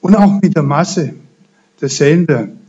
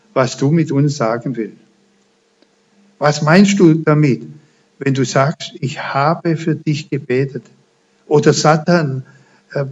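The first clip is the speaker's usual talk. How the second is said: closing prayer. Acted. Preacher prays to close.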